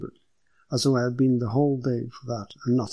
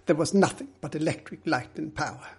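firm answer, pitched up; reply firmly in a lightly higher character voice; 4 semitones higher than usual. Acted. Middleton answering the detective about the wiring, firm. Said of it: "Middleton replied firmly".

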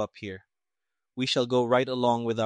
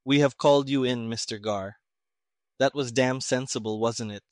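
sarcastic. Acted. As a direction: sneer it with mock praise. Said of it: "The colonel became sarcastic".

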